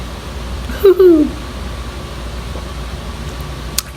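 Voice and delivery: high whoop into a long breath; imitated overwhelmed exhale. Retelling the overwhelming feeling before tears, imitated shaky-moment exhale. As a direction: act out a wave of feeling with breath. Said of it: "start getting that overwhelming feeling".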